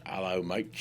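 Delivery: put-on English accent greeting. Shown as a demonstration. Showing off a second accent after the Scottish one, English accent. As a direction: do a matey English voice. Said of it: "That's English".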